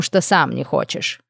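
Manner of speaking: slow melancholy nymph aside; melancholic. Acted. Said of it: "меланхолично заметила нимфа".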